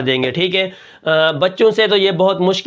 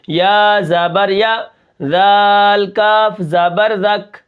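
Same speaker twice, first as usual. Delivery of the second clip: rushed wrong spelling; 2 semitones higher, much slower than usual. Shown as a demonstration. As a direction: run the letters without a careful pause. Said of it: "اگر اس کے اوپر میں احتیاط نہ کروں". (بے احتیاطی سے ہجے)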